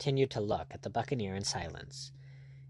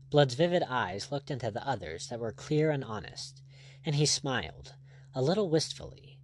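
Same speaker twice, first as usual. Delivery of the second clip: ordinary delivery, nothing marked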